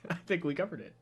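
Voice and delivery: ordinary talk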